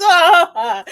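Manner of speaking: loud, high mock sobbing wail; a sudden mock wail over a sad book; mock ugly-cry wail. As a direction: burst out in a hammed-up ugly cry. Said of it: "you just ugly cry".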